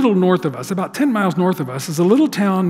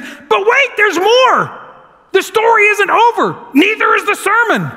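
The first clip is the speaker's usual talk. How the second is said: much higher, loud pitchman hype; infomercial pitchman; 13 semitones higher, 4 dB louder than usual. Acted. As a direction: hawk it like a late-night infomercial host. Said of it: "Pastor Gary says".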